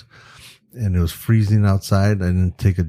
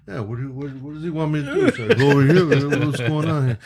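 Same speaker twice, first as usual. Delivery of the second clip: higher, muddled actor impression; Robert De Niro; 6 semitones higher, faster than usual. Actor unsure what the photographer wants, puzzled impression. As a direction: fumble the questions as a puzzled star. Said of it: "they're both talking like".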